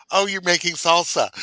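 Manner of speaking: high, loud excited Canadian exclamation. Retold or imitated. Imitating a Canadian reacting to the salsa, high and loud. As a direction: chirp it like a surprised Canadian. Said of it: "to a Canadian, be like".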